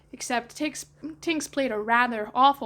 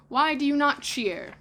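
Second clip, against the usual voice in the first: raised, demanding question; annoyed Peter; 5 semitones higher, 4 dB louder than usual. Acted. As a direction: demand a cheer.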